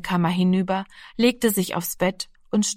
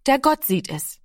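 kleiner Junge; 6 semitones higher than usual. A narrator's reading. Kind sagt Glaubenssatz.

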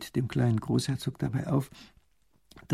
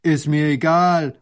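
gruff farmer calling out, slowed; a stubborn farmer calls back; slow loud shout of refusal; 3 semitones higher, 7 dB louder than usual. Acted. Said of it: "ruft der Bauer".

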